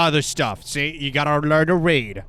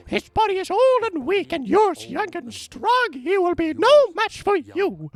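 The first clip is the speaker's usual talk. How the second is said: much higher reading voice; high, strained character voice. Acted. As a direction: read the letter in a high voice. Reads Alexander's note in voice.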